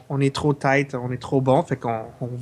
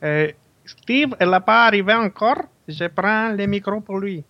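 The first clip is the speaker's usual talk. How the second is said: maid voice; 4 semitones higher, 3 dB louder than usual. Pretend.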